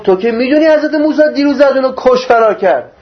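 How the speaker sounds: exasperated questioning, voiced for another; acted reproach. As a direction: take someone to task in a retold quote. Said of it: "گفت".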